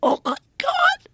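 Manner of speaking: mock amazement, high and drawn out; imitated awestruck gasp. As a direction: voice the cameraman seeing the disc. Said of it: "the camera guy goes".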